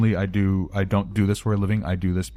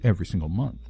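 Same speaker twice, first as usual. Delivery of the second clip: polite corporate villain. Shown as a demonstration. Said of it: "Or are we talking more along the lines of".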